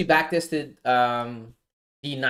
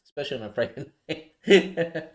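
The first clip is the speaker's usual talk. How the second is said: laughing. Real, not acted. Repeating the phrase with a laugh.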